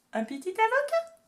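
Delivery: thrilled high squeal over the cute avocado; excited squeal. Real, not acted. Showing avocado tea cap. (petit cri aigu ravi)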